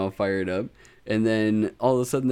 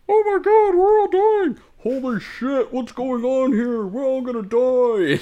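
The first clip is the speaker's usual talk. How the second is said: high, shrieking hammed-up panic; mock panic; 7 dB louder than usual. Elves faking panic among enemy soldiers, hammed-up high shrieks. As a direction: squeal like soldiers losing it in smoke. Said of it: "the elves are just like".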